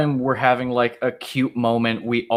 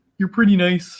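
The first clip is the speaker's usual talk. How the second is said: awkward, fumbling delivery, voice pitched up; 6 semitones higher than usual. Continuing the bit of Anakin talking to Padme: imitating awkward Anakin. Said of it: "I half expect him to walk up to Padme and be like".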